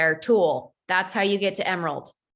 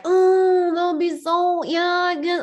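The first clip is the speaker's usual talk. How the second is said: high, hesitant reluctant agreement; a hint of a shrugging friend giving in; hesitant recruit; 7 semitones higher, 3 dB louder, slower than usual. Recruit reluctantly agreeing to do a live. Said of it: "They're like".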